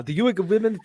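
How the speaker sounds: attempted South African accent. Reader retrying the script, South African accent. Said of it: "I can't do a South African accent".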